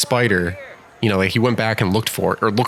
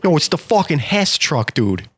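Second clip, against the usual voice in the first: put-on Brooklyn accent; 5 semitones higher than usual. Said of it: "Is that a Brooklyn accent?".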